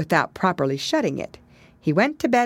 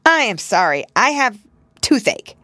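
louder and higher, flustered; dismayed; 6 semitones higher, 5 dB louder than usual. Acted. Pigling excuses himself to Pigwig. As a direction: plead an excuse. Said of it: "much dismayed".

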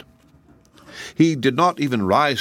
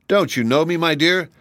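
soldier voice; 9 semitones higher than usual. A narrator's reading. Tin Soldier pleads to sweetheart.

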